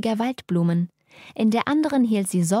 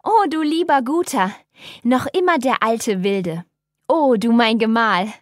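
gasping for breath; 3 semitones higher, 5 dB louder than usual. A narrator's reading. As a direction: squeeze it out after being thrown into the chair. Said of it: "nach Atem ringend hervor".

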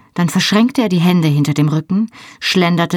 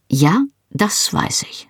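exaggerated patience; 6 semitones higher, slower than usual. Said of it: "mit übertriebener Geduld".

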